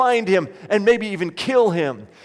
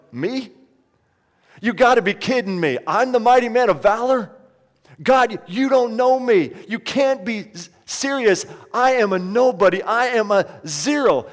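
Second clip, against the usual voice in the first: higher and louder, protesting in disbelief; incredulous Gideon; 4 semitones higher, 3 dB louder than usual. Acted. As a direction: push back like a man who can't believe he's chosen. Gideon's disbelief, voiced by preacher.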